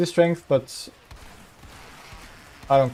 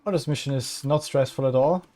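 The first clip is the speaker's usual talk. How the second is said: sarcastic; 3 dB quieter than usual. Real, not acted. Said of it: "he said sarcastically".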